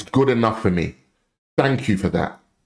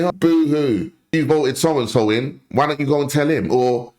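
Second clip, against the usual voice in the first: mocking belittling; 3 semitones higher than usual. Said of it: "will then belittle you and say".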